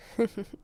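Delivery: amused little laugh; short chuckle. Acted. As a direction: chuckle briefly to yourself. Amused by witch friend.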